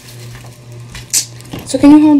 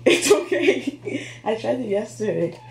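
prank reveal laughing; 5 dB quieter than usual. Real, not acted. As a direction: laugh it off gently. Prank reveal to startled partner.

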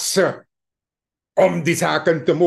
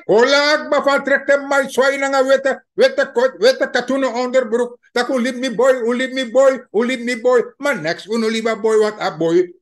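mocking the pleading mother; 4 semitones higher than usual. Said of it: "En zijn moeder heeft ook gezwaaid".

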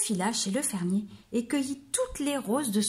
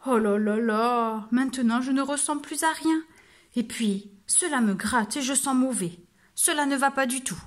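sighing lament; 3 semitones higher than usual. Acted. Muddy wolf sighing at the mirror, mock miserable. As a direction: moan it out, fed up.

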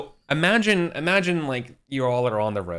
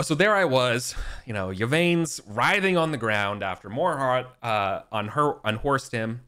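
chipper cheery Gawain. Acted. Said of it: "in just a chipper, cheery mood".

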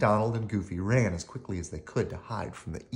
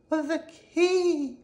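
mock whisper; 4 dB louder than usual. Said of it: "whispered the Golden Harp".

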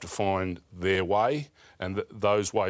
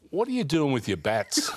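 higher, laughing through the line; laughing punchline; 6 semitones higher than usual. Retold or imitated. Retelling a mate's joke about his bats, laughing. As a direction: deliver the mate's joke while breaking into laughter.

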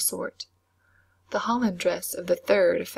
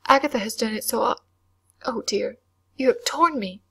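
sudden outcry; 4 semitones higher, 4 dB louder than usual. A narrator's reading. Skirt torn mid-sentence.

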